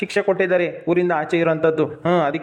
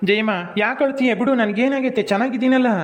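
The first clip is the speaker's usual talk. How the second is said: high-pitched, insistent hushing; pleading reassurance, pitched well up; urgent consoling; 7 semitones higher than usual. Acted. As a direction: hush a crying sister. Brother hushing his crying sister.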